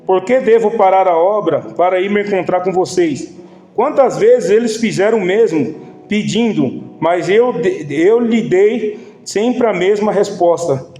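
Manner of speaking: slow, rising Bible reading, pressing on; scripture reading. Acted. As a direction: read the verses with growing weight. Reads Nehemiah passage aloud. (leitura bíblica lenta e enfática)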